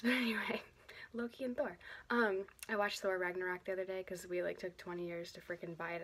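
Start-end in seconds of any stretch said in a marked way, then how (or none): 0.0-1.8 whispered topic change. Real, not acted.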